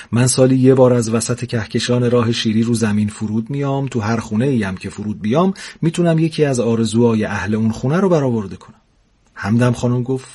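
lively storyteller reading a funny tale; story narration. A narrator's reading. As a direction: read it like a comic bedtime story. Narrator reads humorous story aloud. (روایت داستان طنز)

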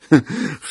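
short, rueful chuckle; brief laugh out of pain; a small acted laugh with hurt behind it.

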